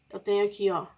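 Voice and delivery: ordinary talk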